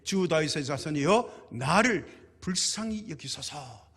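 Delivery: slow, drawn-out reading of a plea; measured scripture plea. Retold or imitated. Preacher quotes the poor woman's plea to Jesus, measured and slow. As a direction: read the cry out slowly, without shouting. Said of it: "소리 질러 이르되".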